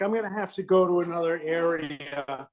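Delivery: ordinary talk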